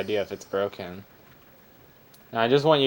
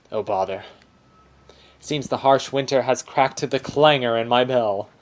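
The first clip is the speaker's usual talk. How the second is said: Aussie bear voice. Acted. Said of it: "This is an Aussie bear".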